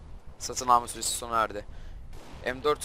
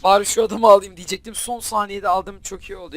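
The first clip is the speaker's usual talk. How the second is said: loud, higher burst of relief; relieved outburst; 7 semitones higher, 11 dB louder than usual. Real, not acted. Gamer celebrating a last-second kill, relieved. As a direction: let the tension out loudly.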